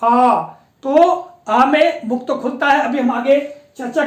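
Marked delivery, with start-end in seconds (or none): 0.0-0.4 "आ" long, with the tongue pulled slightly back; long aa vowel. Shown as a demonstration. Teacher asking students to try it, long "आ". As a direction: open wide on a long "आ". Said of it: "उच्चारण करके देखें".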